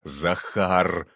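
slow name hissed into an ear; urgent, strained hissing; tense hiss. A narrator's reading. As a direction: hiss it to bring him to his senses. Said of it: "прошипел ему в ухо Прокудин".

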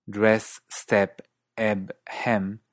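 DRESS, STEP, EB, HEM with American plain 'eh'; American E as in 'perro' in dress, step, eb, hem; American accent. Shown as a demonstration. Teacher comparing three accents, American open E. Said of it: "Estados Unidos".

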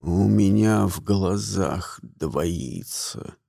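low, slow and soft failing voice; fading old wizard, barely there; weak old man. A narrator's reading. Poisoned old Grimuel admitting double vision, low and faint. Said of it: "уточнил".

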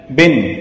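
بن said as ban, nunation with fatha; tanween sound demo. Shown as a demonstration. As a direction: voice بن clearly as ban, tanween ending. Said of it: "مثلًا تقول".

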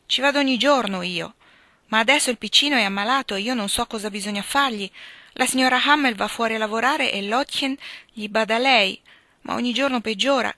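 put-on a gentle girl pleading seriously; earnest young Beth. Beth explains about sick baby.

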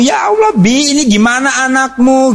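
high, alarmed cry of Ya Allah; shocked wife. Retold or imitated. Wife alarmed by the note, high shocked cry. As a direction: gasp it out like a startled mother.

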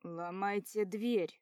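slow loud command; shout. Acted. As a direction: bellow the order. Rescuer shouting to break door.

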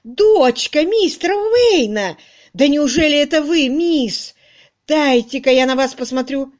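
put-on overjoyed at recognising the girl; радостное восклицание; delighted exclaiming. Charwoman recognises old doctor's daughter.

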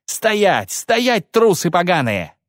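high, hard commanding yell; roaring orders. A narrator's reading. Cahir orders the fleeing cowards to stand, roaring. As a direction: order the runaways to halt. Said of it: "подкрепляя каждый рык".

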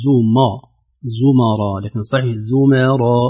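زمرا with a light, thin m and the r kept full; زمرا slowly, light m then heavy r; thin m in zumara. Shown as a demonstration. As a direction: say زمرا keeping the m thin before the r. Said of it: "ترقيق الميم أيضًا".

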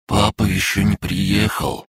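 тоскливо, с печалью; sad question. A narrator's reading. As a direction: ask it sadly like a lonely child. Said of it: "с печалью спросил он".

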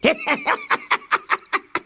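high yapping cackle; cackling laugh. A narrator's reading. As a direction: cackle in short bursts. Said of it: "খ্যাঁক খ্যাঁক করে হেসে".

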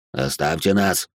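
put-on old man's command. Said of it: "глубокий, старческий голос".

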